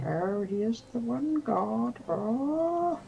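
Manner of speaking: high, slow, hammed-up adoring believer; mock worshipper. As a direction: swoon it like a devout fanatic. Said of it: "for everybody to be like".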